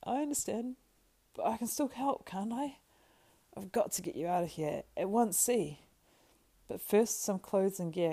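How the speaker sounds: lightly voiced helper taking charge; loyal, practical Sam. Sam plans Frodo's disguise, loyal and practical.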